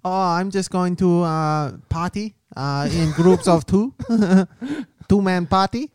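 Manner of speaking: put-on Asian accent, giggling. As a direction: Asian accent character breaking into laughs. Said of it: "Once you do an Asian accent".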